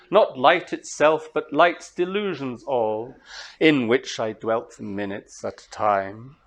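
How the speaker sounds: measured verse reading, lines drawn out; slow English verse reading; slow poetry reading. Shown as a demonstration. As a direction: read the translation slowly, keeping the iambic beat. Reading her English translation.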